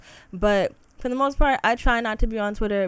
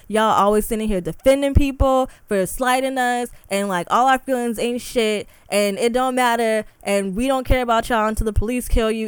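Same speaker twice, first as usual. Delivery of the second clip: loud, exasperated venting; fed-up ranting; 5 dB louder than usual. Real, not acted. Calling out men who won't defend her, angry rant. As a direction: rant it louder, pushing every phrase. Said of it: "y'all make me so mad".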